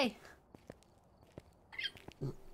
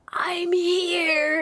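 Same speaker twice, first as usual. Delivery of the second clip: strained, higher ghost reply; stressed-out ghost voice; 5 semitones higher than usual. Retold or imitated. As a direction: play the ghost answering all stressed. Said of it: "it sounded so stressed out".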